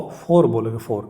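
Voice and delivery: "for" with a closed "oh" vowel, like "fore"; mispronunciation demo. Shown as a demonstration. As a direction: show the mistaken "fore" for "for". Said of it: "this is not for".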